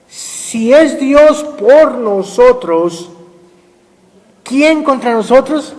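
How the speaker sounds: each word stretched out slow; read very slowly. Shown as a demonstration. Pastor reads Romans slowly to the church, drawn out. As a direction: draw out the verse, very slow. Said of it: "vamos a leerlo despacito".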